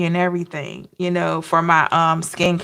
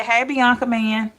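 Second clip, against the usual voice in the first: greeting catchphrase; 3 semitones higher than usual. Shown as a demonstration. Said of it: "I'ma say".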